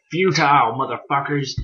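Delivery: mild mock yell, rising in pitch; hammed-up angry threat without full volume; mock villain scream. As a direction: imitate a raging dragon's threat, half-heartedly. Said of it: "He's just screaming".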